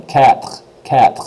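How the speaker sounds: "Cat" with a throaty French R tagged on the end; "cat" finishing in a rasped "khr"; rolled R quatre. Shown as a demonstration. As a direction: roll an R after "cat". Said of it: "Just roll that R in there".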